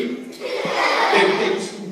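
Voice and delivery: slow whispered line with a laugh. Acted. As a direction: giggle through the words. Retelling baby antics, laughing.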